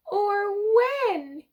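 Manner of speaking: high sobbing. Acted. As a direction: wail the question through tears. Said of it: "he sobbed".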